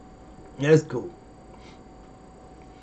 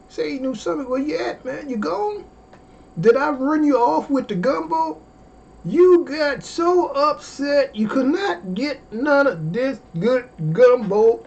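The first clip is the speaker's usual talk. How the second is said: teasing call-out; 10 semitones higher than usual. Real, not acted. Teasing a viewer who left.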